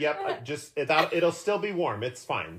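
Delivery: high, laughing fussy caterer. Retold or imitated. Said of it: "I'm like".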